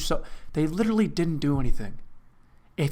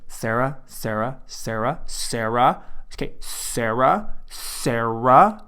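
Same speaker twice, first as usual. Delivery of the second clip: put-on arguing girl repeating name; 3 semitones lower, much slower than usual. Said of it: "if two girls were fighting".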